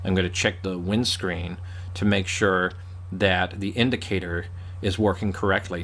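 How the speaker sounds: put-on American talking cars; American accent. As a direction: speak British car terms in an American accent. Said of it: "if an American started talking".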